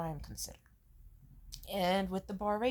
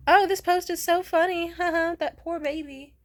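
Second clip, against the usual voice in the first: high, loud, fake giggling; squeaky hammed-up laughter; mock giggly reply; 10 semitones higher, 12 dB louder than usual. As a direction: parody a shallow laughing friend. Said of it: "Or like".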